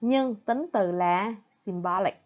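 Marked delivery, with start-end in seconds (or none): 1.5-2.1 symbolic with the stress on BOL; sym-BOL-ic, middle syllable stronger; stress on second syllable. Shown as a demonstration. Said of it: "the second syllable". (symbolic: nhấn âm thứ hai)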